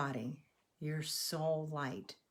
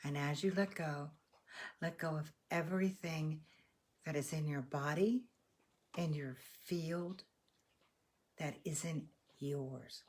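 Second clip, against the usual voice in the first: guided meditation. Real, not acted. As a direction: gently lead them to let go, unhurried. Leads breathing and letting-go meditation.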